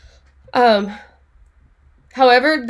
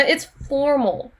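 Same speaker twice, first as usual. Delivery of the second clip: slow emphatic; 2 semitones higher, much slower than usual. Shown as a demonstration. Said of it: "teacher stresses answer".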